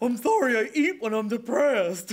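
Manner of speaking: put-on dog voice, very loud and high. Playing an animal in an improvised bit, in a dog voice. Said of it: "It's a dog voice".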